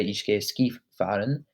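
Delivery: "Ich gehe Skifahren" said slowly and carefully; slow, clear model of the right phrase; correct model. Shown as a demonstration. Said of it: "But you would say".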